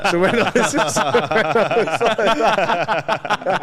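words squeezed out through giggles; can barely get it out for laughing. Real, not acted. Laughing through own story.

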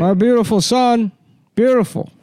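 Biden impression. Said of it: "Beautiful was great".

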